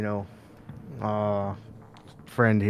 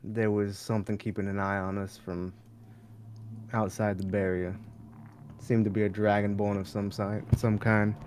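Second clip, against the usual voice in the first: low voice; 7 dB quieter than usual. Pretend. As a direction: keep your voice low. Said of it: "I'm keeping my voice, like, real low".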